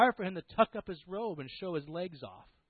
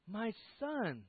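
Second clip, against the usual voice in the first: gentle father; 5 semitones higher, 6 dB quieter than usual. Acted. Father gently answers angry son.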